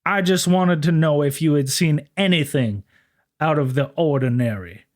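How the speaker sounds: a humble, overly polite officer of the law; mock-gentlemanly lawman; prim officer. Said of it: "Sisko was actually a Southern law enforcement officer".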